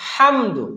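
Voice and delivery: হামদু with a strong breathy throat ha; correct hamdu. Shown as a demonstration. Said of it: "same একই শব্দে".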